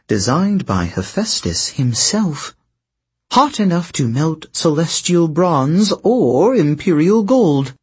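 lightly voiced sly sorceress; silky, knowing queen telling her tale; scheming princess voice. Princess sells her wares.

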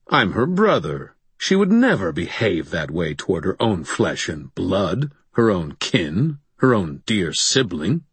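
mock-shocked, projected for eavesdroppers; scandalized. Thomas to Harry, projected for the bugs, mock scandalized. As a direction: play the outraged brother for the bugs. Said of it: "a little bit too well projected".

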